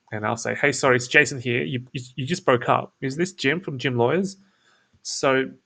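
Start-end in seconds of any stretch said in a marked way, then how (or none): 0.5-4.4 put-on easy, relaxed phone opener like an old friend; casual laid back. Shown as a demonstration. To the lead on a cold call, casual and laid back. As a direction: say it like you already know him. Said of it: "let me just reenact it".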